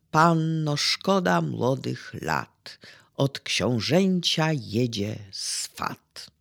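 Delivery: slow, measured verse with a firm opening; ballad recitation. Acted. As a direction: recite in short phrases, drawing out the line endings. Recytuje strofę ballady. (recytacja ballady, powoli, z pauzami)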